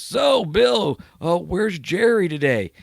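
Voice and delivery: high, loud folksy local voice; small-town local. Retold or imitated. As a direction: call out like a gas station regular. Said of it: "And the guy goes".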